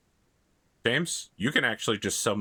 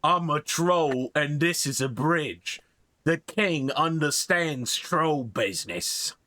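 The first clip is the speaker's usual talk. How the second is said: slow, higher dopey troll voice; dopey cartoon bellow; 4 semitones higher, slower than usual. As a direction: drag it out like a dim troll.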